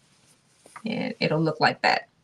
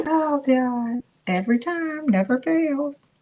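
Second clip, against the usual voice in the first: laughing relief; 8 semitones higher than usual. Real, not acted. Laughing relief after trimming.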